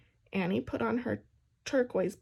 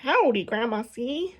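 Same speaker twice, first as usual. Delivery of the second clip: louder whooping greeting; whooped; 7 dB louder than usual. A narrator's reading. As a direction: whoop it in from the door. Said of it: "Annie whooped".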